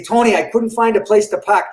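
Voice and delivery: Boston "park" with no R; Boston accent. Retold or imitated. Boston guy telling his Long Island friend about parking, Boston accent. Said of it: "It's not park".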